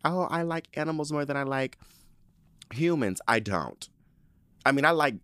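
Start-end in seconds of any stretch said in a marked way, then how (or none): 0.0-3.2 animal lover. Acted. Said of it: "those people who are like".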